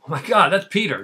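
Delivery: mock surprise. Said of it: "I know what you're thinking".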